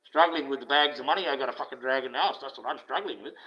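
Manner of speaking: lightly mock the rich complainer; mock whinge. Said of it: "You wouldn't hear me whinging about".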